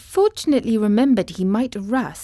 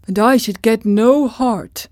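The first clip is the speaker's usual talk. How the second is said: sad Tin Woodman; 4 dB louder than usual. Acted.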